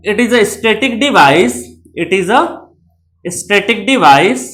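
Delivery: very slow, word by word; slow dictating pace; slow dictation. Shown as a demonstration. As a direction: spell it out slowly for notes. Teacher dictating definition slowly.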